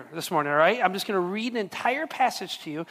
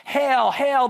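mock hail; 4 semitones higher, 6 dB louder than usual. Soldiers mocking Jesus.

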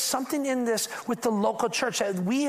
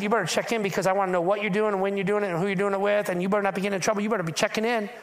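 nagging mama; faster than usual. Retold or imitated. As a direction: rattle it off like a mom laying down the law. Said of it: "Y'all had a mama that said".

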